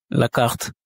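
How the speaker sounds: la carte with a Russian rolled R, laughing; la carte said with the R trilled as in Russian. Shown as a demonstration. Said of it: "Je me permets de rouler le R en R russe".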